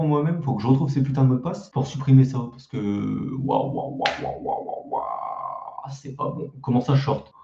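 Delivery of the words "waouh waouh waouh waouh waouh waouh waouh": string of wahs sinking low; dismayed wow-wow. Real, not acted. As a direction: groan wah-wah-wah, dropping deep and soft. Cringing at his old channel.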